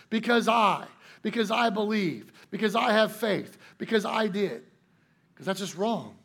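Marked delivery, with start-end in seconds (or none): 0.1-4.6 "I" punched higher and louder each time; louder, higher first-person claim; stress on I. Shown as a demonstration. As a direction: hit the word "I" in every "because I". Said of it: "we could not answer in the first person".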